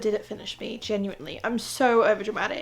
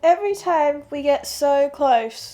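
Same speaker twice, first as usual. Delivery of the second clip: exasperated gushing; 6 semitones higher, 6 dB louder than usual. Real, not acted. Gushing over a slow-burn romance.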